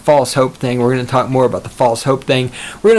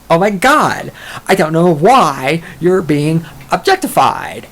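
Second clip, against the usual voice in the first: higher, drawn-out sarcastic imitation; mock disbelief; 4 semitones higher, slower than usual. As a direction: exaggerate the incredulous thought, stretching the words. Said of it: "I'm thinking to myself".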